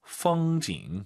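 풍경 said slowly with clear tones; tone demo. Shown as a demonstration. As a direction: stretch out 풍경 slowly, tones marked. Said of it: "풍경 한번 들어볼게요". (풍경 천천히 성조 살려서)

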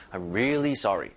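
"really" pressed and slightly drawn out; stress on really. Shown as a demonstration. English teacher demonstrates for learners, "really" stressed and lengthened. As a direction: lean on "really" and stretch it a little. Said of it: "힘을 주면서 살짝 끌어주는 거예요".

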